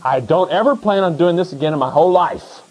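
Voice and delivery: high, gleeful hallelujah to the professors; mock triumphant farewell. Student shouts goodbye at the professors' doors, gleeful and high. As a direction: crow your freedom from the classes. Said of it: "point them at each of the professor's doors and just say".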